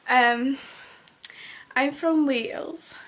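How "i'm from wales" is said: slow put-on Welsh accent, rising at the end; a light Welsh accent on request. Shown as a demonstration. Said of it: "Can you do any other accents on your own?".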